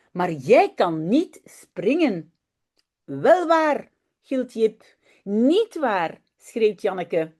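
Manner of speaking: lively storybook voice, playing each child; story reading for children. A narrator's reading. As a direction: read it like a bedtime tale to little kids. Reads a Dutch children's story aloud. (lecture d'histoire animée pour enfants)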